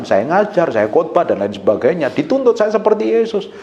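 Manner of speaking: ordinary delivery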